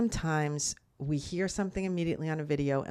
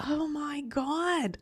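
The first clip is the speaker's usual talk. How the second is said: emotional; 10 semitones higher, 3 dB quieter, much slower than usual. Real, not acted. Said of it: "I'm getting emotional again".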